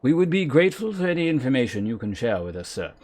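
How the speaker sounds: lightly voiced formal fantasy speaker; a hint of courtly formality; courteous game character. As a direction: read it as a polite, archaic request. Reads game character dialogue aloud.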